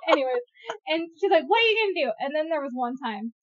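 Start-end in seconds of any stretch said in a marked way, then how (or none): 1.5-2.1 high, imitated sibling taunt; mock taunt. Sister answering back in a fight, taunting. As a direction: throw it out as a high-pitched challenge.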